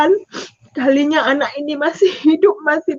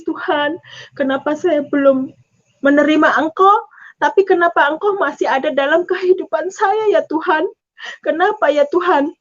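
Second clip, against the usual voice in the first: crying prayer; 3 semitones higher than usual. Retold or imitated. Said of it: "saya menangis".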